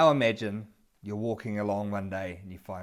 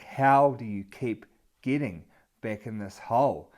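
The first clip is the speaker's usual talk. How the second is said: exasperated; 6 dB louder than usual. Retold or imitated. Exasperated at repeat rescue.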